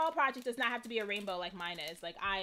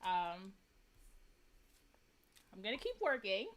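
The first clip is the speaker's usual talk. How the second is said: holding back tears; 5 semitones lower, 8 dB quieter than usual. Real, not acted. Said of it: "I'm gonna try not to cry".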